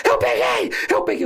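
high, frantic mock yell; imitated desperate yelling. Officer mimics his partner holding the suspect, frantic high shouting. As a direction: cry out a catch in comic panic. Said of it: "vem o lindo desesperado gritar".

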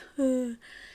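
short audible sigh; acted upset exhale; tearful sigh. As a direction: let out a breath as if close to tears. Recalls tears coming out.

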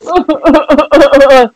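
stuttering imitation of blubbering; badly faked boo-hoo sobs; mock sobbing. Imitating the film character crying over the bomb, mock sobbing. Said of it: "crying like a bitch".

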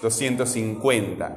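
measured "cincuenta" with stressed CUEN; stressed syllable demo. Shown as a demonstration. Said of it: "la sílaba tónica está acá".

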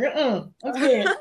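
slow, put-on frightened voice; hammed-up fear, drawn out; mock scared. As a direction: play it like you're too scared to go on set. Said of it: "I'm like".

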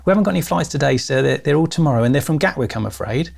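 lightly imitating a London counter clerk; Cockney airline clerk, lightly voiced; mild Cockney lady. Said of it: "Cockney accent lady".

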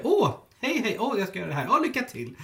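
bright sing-song well-wishing; sweet chirpy wish. Retold or imitated. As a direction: chirp it like a friendly colleague. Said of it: "När man säger". (glatt kvittrande)

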